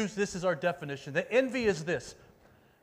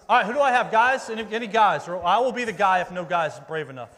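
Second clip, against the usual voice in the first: rally the crowd loudly; calling out; 3 semitones higher, 11 dB louder than usual. Real, not acted. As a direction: call out over a noisy room. Calls into crowd for volunteers.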